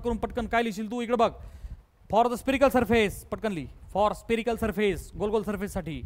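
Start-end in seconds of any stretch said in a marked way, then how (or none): 2.1-3.3 very slow, measured dictation. Real, not acted. Dictates notes to write down. 3.9-5.2 very slow, measured dictation. Real, not acted. Dictates notes to write down.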